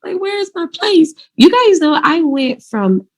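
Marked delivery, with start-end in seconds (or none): 0.0-1.1 high, soft, whimpering distress; retold crying. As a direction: relive the tearful moment, high and quiet. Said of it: "I was crying".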